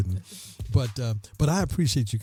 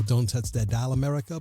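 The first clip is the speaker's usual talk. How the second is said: radio sign-off; 3 semitones higher than usual. Acted. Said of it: "As I say on the radio".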